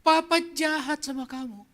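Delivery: acting out a remorseful father; tearful father. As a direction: confess as a father close to tears.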